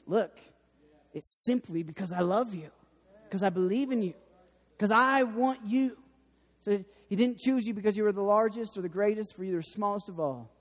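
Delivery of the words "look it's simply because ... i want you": tender voice of Jesus. Pretend. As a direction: say it gently, as if to a child. Voicing Jesus, soft and tender.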